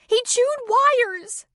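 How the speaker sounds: high slow sobbing outcry; sobbing cry. A narrator's reading. Girl interrupting Kelly's call, sobbing. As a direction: cry it out with a sob. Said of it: "cried out with a sob".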